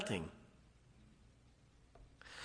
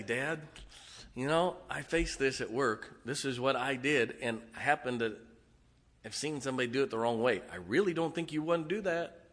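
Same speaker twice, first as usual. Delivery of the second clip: respectful and bold; 7 dB quieter than usual. Retold or imitated. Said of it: "But when you walk up to Dad and say".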